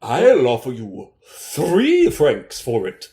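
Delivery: a hint of a smug bidder; nearby gentleman. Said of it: "says a nearby, uh, gentleman".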